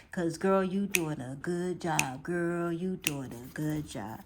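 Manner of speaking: soft, slow, tender pep talk to herself; self-encouragement. Retold or imitated. Telling herself she's doing a good job, soft and slow. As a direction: hush it gently like cheering yourself on. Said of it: "I just say".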